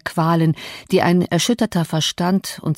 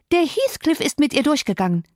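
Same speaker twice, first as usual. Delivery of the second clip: raised, breathless alarm; agitated; 7 semitones higher than usual. A narrator's reading. Maid telling the master of the elopement, agitated. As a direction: spill out the scandal in a high rush.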